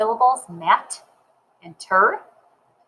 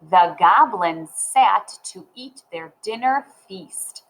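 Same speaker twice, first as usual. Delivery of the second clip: slow, evenly spaced words; modelled reading. Shown as a demonstration. Teacher rereading the sentence to learners, slow and deliberate. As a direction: read it deliberately for beginning readers. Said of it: "So let's read".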